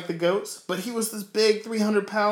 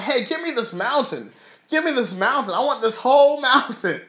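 high, insistent demand, building louder; charged-up Caleb; 6 semitones higher, 4 dB louder than usual. Retold or imitated. Caleb demanding his mountain, charged up. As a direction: act out someone raring to claim a prize. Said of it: "He was charged up".

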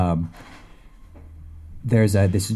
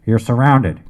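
louder, as if through a megaphone; bullhorn voice; 2 semitones higher, 6 dB louder than usual. Acted. Police officer calling out to the trapped woman, over a bullhorn. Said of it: "came the voice over the bullhorn".

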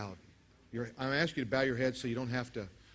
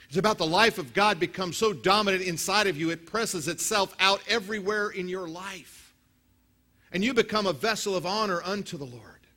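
higher and louder preaching; full-force preaching; 8 semitones higher, 10 dB louder than usual. Real, not acted. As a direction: build the crowd up, high and loud.

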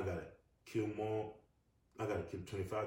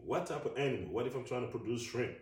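incredulous; 5 semitones higher, 5 dB louder than usual. Real, not acted. Mocking incredulous questions.

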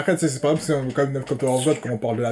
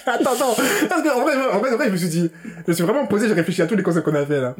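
high, laughing through words; barely holding the laugh in; 7 semitones higher than usual. Real, not acted. (en riant)

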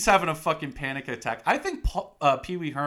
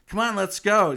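mock urgent call; 8 semitones higher, 8 dB louder than usual. Retold urgent call to leave.

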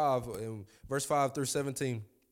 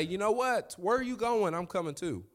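excited shout; 6 semitones higher than usual. Acted. Preacher voicing a bold response.

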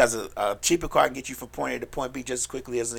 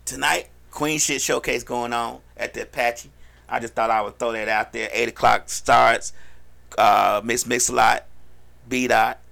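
promotional plug; 4 dB louder than usual. Pretend. Host plugging tonight's showcase to listeners, promotional announcer read. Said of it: "uh, little plug".

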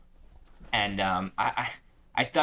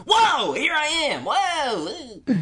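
hammed-up startled whoa; 5 dB louder, slower than usual. Mocking his awkward award moment.

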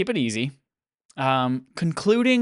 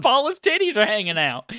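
Paula Deen impression; 5 semitones higher than usual. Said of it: "it's Paula Deen".

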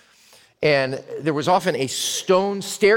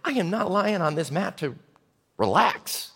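polite sarcasm; 4 dB quieter than usual. Acted. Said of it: "I'm thinking".

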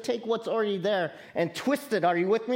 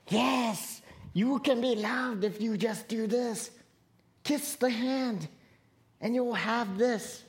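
tempting snake; 3 semitones higher than usual. Retold or imitated. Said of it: "the snake that goes".

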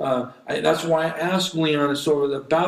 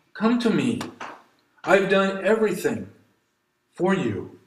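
a raised, earnest plea of Come to me; pleading call; 4 semitones higher than usual. Retold or imitated. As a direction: call out Come to me with urgent longing. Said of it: "God is pleading with you".

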